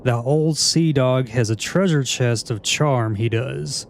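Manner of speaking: lightly hammed-up pirate talk in a southern accent; attempted southern accent. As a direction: read the pirate lines with a hint of southern twang. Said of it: "trying to voice that in a southern accent".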